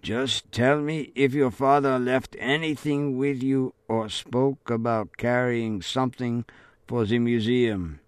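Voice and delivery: flat, lifeless sergeant major voice; a hint of a cold officer; dead voice. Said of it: "limping sergeant major with a dead voice".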